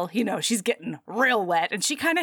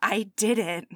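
awed whisper; slower than usual. Acted. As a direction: whisper it in awe. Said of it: "she's standing there being like".

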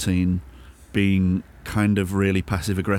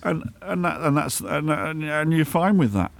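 passive-aggressive; 7 semitones higher than usual. Acted. Winding co-host up in master role.

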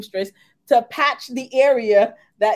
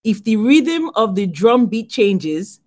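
put-on African accent; 3 semitones lower, slower than usual. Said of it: "in my African accent or regular".

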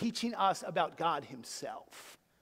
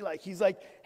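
ordinary talk

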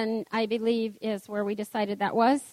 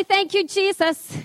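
natural praise; 7 semitones higher than usual. Shown as a demonstration. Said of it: "I can say".

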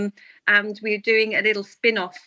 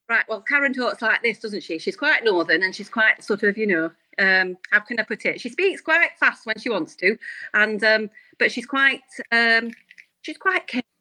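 lightly put-on northern character voice; a touch of northern character; Karen. Shown as a demonstration. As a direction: talk like a chatty northern woman. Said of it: "Ooh, give us a Karen voice".

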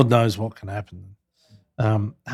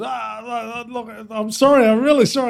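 raised, higher apologetic voice, a touch hammed-up; mock apologetic Murdoch; 10 semitones higher, 4 dB louder than usual. Retelling Murdoch begging off the dinner, mock apologetic higher voice. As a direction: play a sorry old man begging off dinner.

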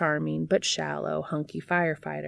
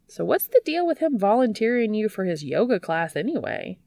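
higher, pushy curious friend; eager Charlie; 5 semitones higher, 4 dB louder than usual. A narrator's reading. Charlie pressing Dean about the yoga class, higher and eager. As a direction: press ahead with the question.

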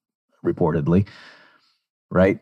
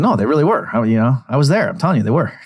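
high-pitched mock insistence; Kanye insisting; 5 semitones higher, much faster than usual. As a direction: imitate someone protesting, pitch raised. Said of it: "And Kanye at times took".

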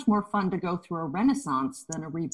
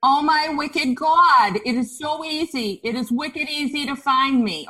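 put-on Boston accent; 4 semitones higher, 4 dB louder than usual. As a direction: lay on the Boston accent for a laugh. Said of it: "that's with a, a Boston accent".

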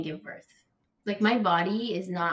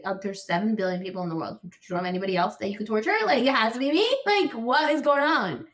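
yelling at God; 2 semitones higher than usual. Retold or imitated. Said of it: "yelling at Hashem".

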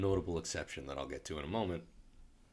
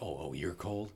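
Chewie impression; 3 semitones higher than usual. Chewie answering Finn in a lightly voiced creature sound. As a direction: lightly play the Wookiee. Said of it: "Chewie makes this little sound".

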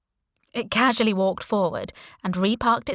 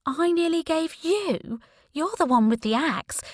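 indignant retort; 9 semitones higher than usual. Acted. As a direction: throw the accusation back at him, pitched up. Startled woman retorts to axe man.

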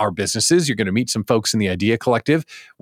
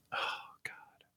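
breathy, awed near-silent exhale; hushed rapture over new golf clubs; blissful whisper; 23 dB quieter than usual. Real, not acted.

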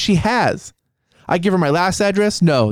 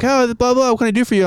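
higher-pitched imitation of a phone operator; mock operator greeting; 5 semitones higher, faster than usual. Operator greeting a transferred customer, mimicked higher. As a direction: lightly mimic a call-centre greeting, pitched up.

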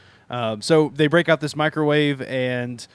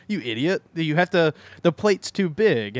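mock berating; 4 semitones higher than usual. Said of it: "he kind of is berating him".

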